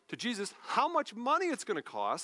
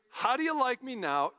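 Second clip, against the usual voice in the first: higher-pitched, punchy mock taunt; playful in-your-face boast; 5 semitones higher than usual. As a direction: crow it like a showy winner. Mimics a triumphant boast.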